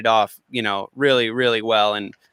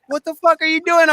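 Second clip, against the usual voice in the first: mock shock; 4 dB louder than usual. Retelling shocked studio reaction.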